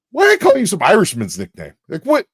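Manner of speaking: high, exasperated mock outburst; loud, high confused ranting; bewildered dad. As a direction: imitate a dad totally baffled. Imitating his bewildered dad on calls.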